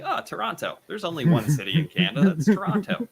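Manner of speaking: high, fast, clueless know-it-all; clueless American. Retold or imitated. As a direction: rattle it off like it's obvious. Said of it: "They'd be like".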